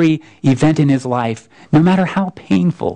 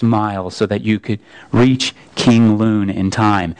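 lower, steady and solemn; a vast voice laying out the whole story; Aslan's voice; 5 semitones lower than usual. Acted. The lion tells Shasta his own story, low and solemn.

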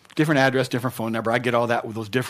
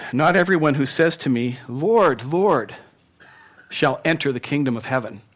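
measured reading of a Bible passage; scripture reading. Acted. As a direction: read the verses like a preacher at the pulpit. Reads scripture aloud.

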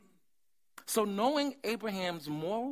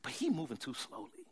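Sarah's voice. Retold or imitated. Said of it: "I think Sarah talked like that".

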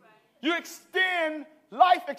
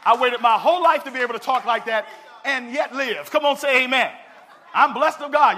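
laughing shout; 6 dB louder than usual. Real, not acted. Laughing at his own boldness.

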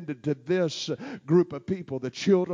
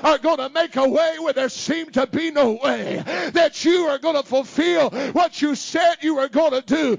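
raised, impassioned preacher voice; fiery preaching; 7 semitones higher, 6 dB louder than usual. Real, not acted. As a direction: preach it out to the church. Preaching at full force.

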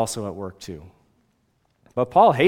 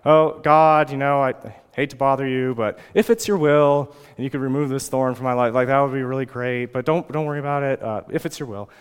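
mock meek, apologetic prayer; passive, wimpy prayer. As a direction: pray timidly, as if afraid to bother anyone. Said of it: "wimpy prayer like".

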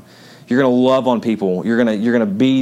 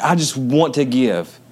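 mock pleading; slower than usual.

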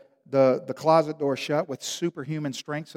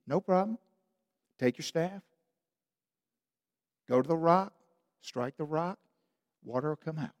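quiet, easy reassurance; calm God voice; 7 dB quieter than usual. Retold or imitated. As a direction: answer like it's no big deal. God answering calmly.

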